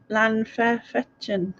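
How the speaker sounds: careful, un-Welsh go at "Llanfairfechan"; struggling pronunciation. Real, not acted. Going with own attempt at the Welsh name, careful pronunciation. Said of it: "I would have a struggle pronouncing it".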